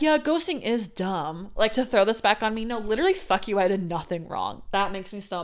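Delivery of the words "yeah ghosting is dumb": slow, drawn-out mimicry of his reply; mock quote. She mocks the ex throwing ghosting back on her. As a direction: parrot his words back with scorn. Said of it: "for you to be like".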